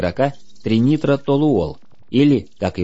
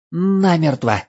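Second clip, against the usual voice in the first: elf voice; 8 semitones higher, slower than usual. Acted. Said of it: "констатировал эльф".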